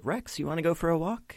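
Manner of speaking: high, fast cooing dog-walk voice; talking to a dog. Acted. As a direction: coo at your dog like a treat. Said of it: "she's like".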